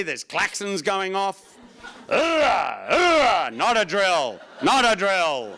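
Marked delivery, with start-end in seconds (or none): 2.1-5.6 mock alarm panic. Inner crew reacting to the alarm. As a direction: bark it like sirens going off.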